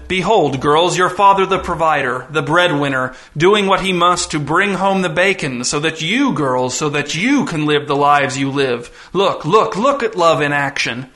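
grandiose, swooping showman delivery; visitor, grandly theatrical. Acted. Visitor presents a father to his daughters, gloating grandly. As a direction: proclaim it with relish, stretching key words.

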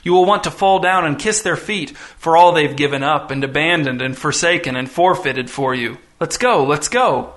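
lightly voiced eerie visitor, coaxing; visitor's voice. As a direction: coax the girls along in a cajoling tone. The visitor speaks, urging.

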